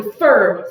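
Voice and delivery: fur punched out heavily; strong stressed syllable. Shown as a demonstration. Teacher showing the rising part, punched fur. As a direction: give fur a big push. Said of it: "qual parte ela sobe?".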